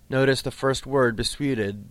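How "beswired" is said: beswired with the stress on "swi"; stress on second syllable. Shown as a demonstration. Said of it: "has stress on the second syllable".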